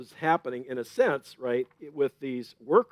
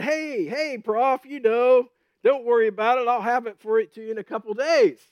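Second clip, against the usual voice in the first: casual, relaxed student; 8 semitones higher, 6 dB louder than usual. Retold or imitated. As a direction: shrug off the professor, loud and breezy. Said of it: "They were casual and relaxed".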